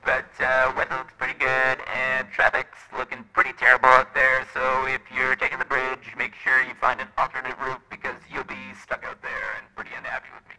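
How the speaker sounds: radio traffic report; tinny radio announcer; radio effect. Shown as a demonstration. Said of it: "there's a radio".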